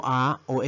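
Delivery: A as open "ah", then A as "ey"; two sounds of A. Shown as a demonstration. Teacher showing English letter A, short then long sound. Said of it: "se pronuncia como".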